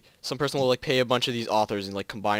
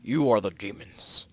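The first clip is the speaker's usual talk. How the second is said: ominous reveal; 3 semitones lower, slower than usual. Acted.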